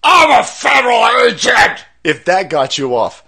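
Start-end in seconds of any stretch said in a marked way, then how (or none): 0.0-1.8 high, loud, fake crying mockery; mocking whiny agent. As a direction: whine it out like a crybaby. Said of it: "And then he finally, see".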